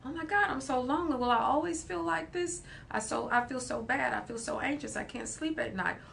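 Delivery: high, fast whiny lament; anxious inner child. Acted. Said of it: "That's what reparenting looks like".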